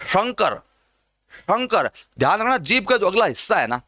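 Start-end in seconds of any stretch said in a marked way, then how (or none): 0.1-1.9 careful palatal श opening शंकर. Shown as a demonstration. Teacher models the word for students, palatal sh in शंकर. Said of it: "आप शंकर शब्द को बोलिए".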